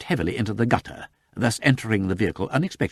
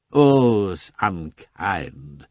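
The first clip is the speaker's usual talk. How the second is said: deep reproach; much slower than usual. Acted. Lord Peter reproaches Sugg, low and very slow. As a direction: mournfully scold the intruder. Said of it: "in a deep, reproachful tone".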